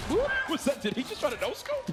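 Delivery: high, loud stunned question; surprised. Real, not acted. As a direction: react in disbelief. Caster surprised by no-scope.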